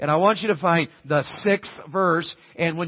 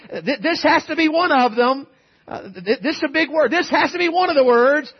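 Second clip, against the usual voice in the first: laughing; 6 semitones higher than usual. Acted. Imagined congregant answer, laughing.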